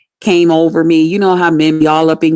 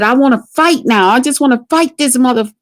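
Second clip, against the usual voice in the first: higher-pitched, heated retelling; worked-up fighting talk; 5 semitones higher than usual. Retold or imitated. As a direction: act out itching for a fight. Re-enacts wanting to fight him.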